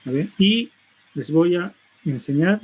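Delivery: "les voy a enseñar" broken by short pauses. Shown as a demonstration. Teacher imitating the clip's pauses. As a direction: leave gaps between the words. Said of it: "Hay pausas".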